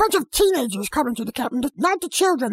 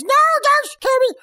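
high, louder mock scream; hammed-up cry for mercy; 11 semitones higher, 6 dB louder than usual. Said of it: "Probably screams".

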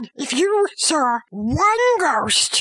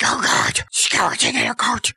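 horrified Scrooge; 4 semitones lower than usual. Acted. Scrooge sees the final ghost.

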